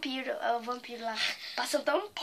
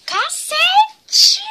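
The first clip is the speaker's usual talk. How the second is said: pained curse; 9 dB louder than usual. Real, not acted. Burning face.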